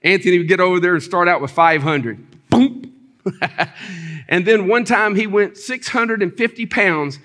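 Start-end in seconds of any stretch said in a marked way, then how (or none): 2.5-2.9 imitated boom. Imitating the big lift.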